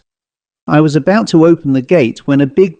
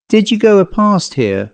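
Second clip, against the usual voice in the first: higher, astonished question; 7 semitones higher than usual. A narrator's reading. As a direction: caught off guard, asking in disbelief. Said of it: "he inquired, astonished".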